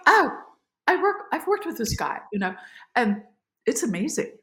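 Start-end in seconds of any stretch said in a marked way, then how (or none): 0.1-2.2 high, thrilled gush; a starstruck exclamation at a film premiere; excited. Retold or imitated. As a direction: squeal it with delight at recognizing him. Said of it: "I get very excited".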